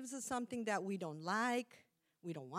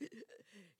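sobbing gasp; 15 dB quieter than usual. Shown as a demonstration. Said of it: "cry so hard that".

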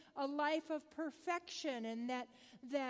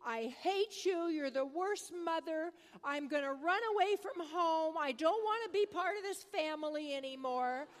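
mild mock tantrum, somewhat louder; retold angry screaming; 3 semitones higher, 6 dB louder than usual. Grandmother retelling grandson's breakfast meltdown, mock angry screaming. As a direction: imitate a child's outburst without really screaming. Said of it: "He was screaming".

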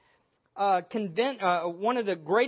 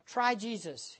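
softer imitation of a sweet "Try Jesus" sales pitch; mock soft sell; 6 dB quieter, slower than usual. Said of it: "They say things like this".

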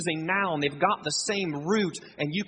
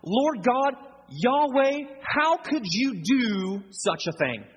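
higher-pitched, mildly outraged protest to God; acted indignation; 3 semitones higher than usual. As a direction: plead Jonah's case with mock indignation. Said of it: "welling up in Jonah's heart".

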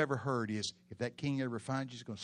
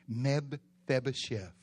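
slow; 4 dB louder, much slower than usual. Shown as a demonstration.

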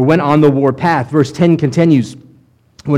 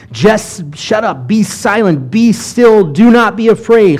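Moses commanding; 5 semitones higher, slower than usual. Acted. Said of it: "what Moses is in essence saying".

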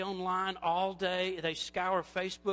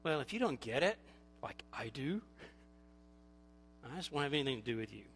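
lower, quieter dismissive tone; mock intolerance; 6 semitones lower, 4 dB quieter, faster than usual. Intolerant person cutting someone off, low mock dismissal. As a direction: shut them out with a low, cool dismissal. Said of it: "And intolerance".

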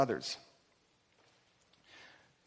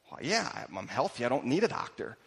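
lower, softer acted reply; offhand admission; 4 semitones lower, 5 dB quieter than usual. Healthy person answering who needs a doctor, offhand. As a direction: answer as if it's obvious, voice dropped.

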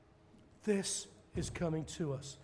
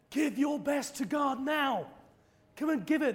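revival preacher call; 9 semitones higher, 5 dB louder than usual. Retold or imitated. Preacher calling the congregation to give, loud urging. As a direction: rouse the crowd to give.

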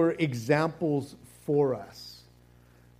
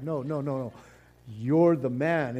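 playful protest; 3 semitones lower than usual. Pretend. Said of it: "And it's like".

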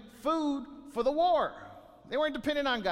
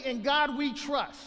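higher, slowed, sarcastic recital; mocking quote; 4 semitones higher, slower than usual. Preacher mocking hearers' empty creed, sarcastic. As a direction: throw their own motto back at them. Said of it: "You say".

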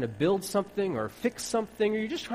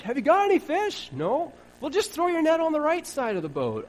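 much higher, breezy know-it-all voice; mock stranger on the beach; 10 semitones higher, 4 dB louder than usual. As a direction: play the cheerful stranger giving advice. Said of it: "here's this guy on a beach".

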